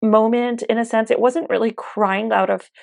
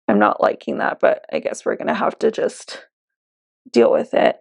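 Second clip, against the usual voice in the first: whispered aside. Real, not acted. Muttered aside about patchy foundation.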